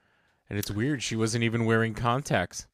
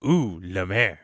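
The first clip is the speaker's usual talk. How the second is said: little shrimp; slower than usual. Retold or imitated. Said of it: "I thought of the little shrimp from Finding Nemo".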